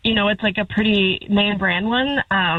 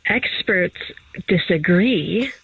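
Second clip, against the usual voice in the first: nature documentary narrator; 3 semitones lower, slower than usual. Acted. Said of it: "sounding like a nature documentary narrator".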